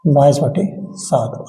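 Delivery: drawn-out "बाईस बटे सात" with weight on "बटे"; slow dictation. Shown as a demonstration. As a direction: slowly spell out "बाईस बटे सात" for students to copy. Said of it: "तो आप क्या लगाएंगे?".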